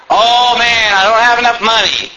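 mock whining about money; whiny poor man. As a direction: sigh over what you lack. Mocking a poor complainer.

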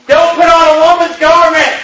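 preacher thundering the verse again; forceful quote. Acted. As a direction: bang out the commandment as a rebuke.

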